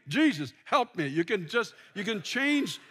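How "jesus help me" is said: Jesus, help me stressed on Jesus; prayer intonation three. Shown as a demonstration. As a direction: put the weight on Jesus. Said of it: "if you change the intonations".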